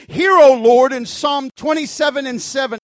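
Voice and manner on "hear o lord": pleading quote. Acted. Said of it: "The Bible says".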